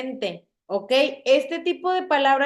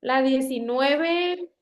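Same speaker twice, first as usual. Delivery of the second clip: la diecinueve spoken slowly, syllable by syllable; slow, deliberate word; much slower than usual. Shown as a demonstration. Teacher spells out the word for students, slow and clear. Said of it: "palabra para que vayan familiarizándose con ella".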